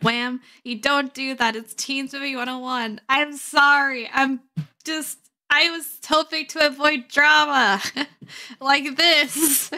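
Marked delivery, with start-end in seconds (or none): 3.1-9.7 loud apology breaking into laughter; laughing lament. Real, not acted. Streamer hoping to avoid drama, loud laughing lament. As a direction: protest the drama loudly, laughing between phrases.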